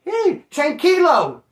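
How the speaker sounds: high, slow, drawn-out Spanish call; mock Spanish shout. Telling a wild friend to chill, drawn-out Spanish mock yell. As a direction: stretch out a mocking Spanish tranquilo.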